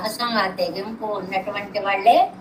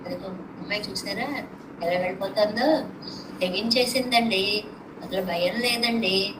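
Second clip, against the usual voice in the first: softer gossiping murmur; gossiping whispers; 5 dB quieter than usual. Retold or imitated. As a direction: murmur it like spiteful neighbours. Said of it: "అని గుసగుసలు".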